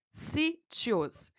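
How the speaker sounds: sítios split up, with SÍ held long; stressed syllable stretched. Shown as a demonstration. Teacher showing a paroxytone, sítios split on its stressed SÍ. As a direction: break sítios in two, leaning on SÍ. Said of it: "a penúltima sílaba tônica".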